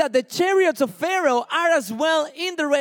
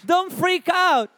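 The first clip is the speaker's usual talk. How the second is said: firm shout; 5 semitones higher, slower than usual. Real, not acted. Preacher telling the church not to panic, shouted slowly. Preacher urging congregation to stay calm.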